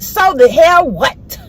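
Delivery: slow, sassy dismissal, every word drawn out; defiant retort. Real, not acted. Preacher telling critics off, slow sassy defiance. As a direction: brush off the critics slowly and boldly. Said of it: "I gotta just say it just like that".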